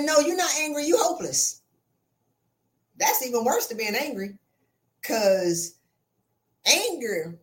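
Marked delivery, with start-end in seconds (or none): 0.0-1.6 blunt verdict. Retold or imitated. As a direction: deliver it as a punchline. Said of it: "I said".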